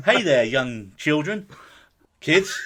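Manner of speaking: lightly voiced, slow old man Steve Buscemi; a faint, slow go at Buscemi's creepy old man. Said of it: "Can't even get the old man Steve Buscemi thing right".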